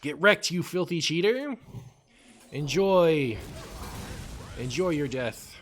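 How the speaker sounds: high gloating taunt. Acted. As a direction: gloat over the beaten cheater. Taunting opponent in game.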